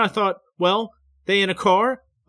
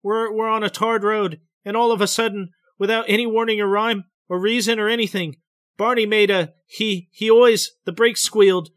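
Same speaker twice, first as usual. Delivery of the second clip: higher, tense, hurried telling; trembling, rapid breath; 6 semitones higher, 4 dB louder than usual. A narrator's reading. Betty recounting the sudden turn to the doctor, trembling. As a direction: let the voice tremble as you rush on. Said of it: "her voice is trembling, her breath is rapid".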